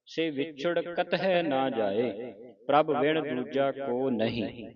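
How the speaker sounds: slow, measured teaching recitation; scripture recitation. Shown as a demonstration. Teacher reading scripture for the congregation, slow recitation. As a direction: recite each word slowly, drawing out the vowels.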